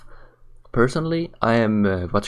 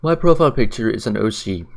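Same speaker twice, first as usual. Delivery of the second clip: yawning. Real, not acted. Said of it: "I just yawned".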